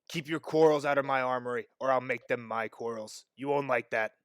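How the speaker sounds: lightly voiced low, quiet warning; stern armorer. Armorer warns the boys out of his armory, quietly stern. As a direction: warn them off with understated authority. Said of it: "the armorer said".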